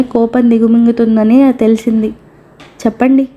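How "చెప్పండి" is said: mock-polite playful prompt; jokingly. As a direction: say it in jest to the patient. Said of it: "అన్నాడు తమాషాగా". (తమాషాగా, వెక్కిరింపు మర్యాదతో)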